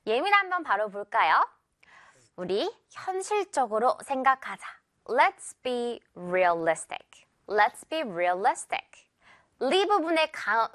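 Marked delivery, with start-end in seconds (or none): 5.1-9.1 slow model sentence, "realistic" stressed on "li"; stress on middle syllable. Shown as a demonstration. Teacher modelling an example sentence, "realistic" stressed on "li". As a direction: hit the "li" in "realistic", slowly. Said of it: "가운데 강하게 강세 주는 거".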